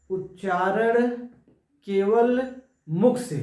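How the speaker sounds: निर्नुनासिक spaced out very slowly; slow dictation. Shown as a demonstration. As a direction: spell out निर्नुनासिक slowly for note-taking. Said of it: "निर्नुनासिक". (धीरे-धीरे बोलकर लिखवाना)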